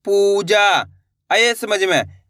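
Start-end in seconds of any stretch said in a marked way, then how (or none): 0.1-0.7 पूजा with a long held ऊ; stretched vowels. Shown as a demonstration. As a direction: draw out पू, then जा. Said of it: "इसी तरीके से इनको पढ़ा जाता है".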